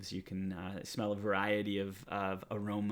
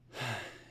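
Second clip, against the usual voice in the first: weary sigh; 3 semitones higher than usual. Acted. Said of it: "lets his shoulders drop".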